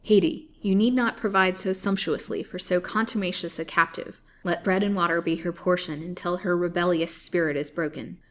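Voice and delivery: loud, commanding menace; loud villainous command; menacing threat. Acted. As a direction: lay down the sentence coldly. Colville threatens the captive.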